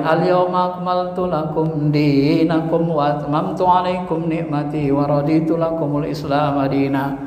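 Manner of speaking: measured, lightly chanted Arabic verse; Quran recitation. Acted. Quoting the revealed verse.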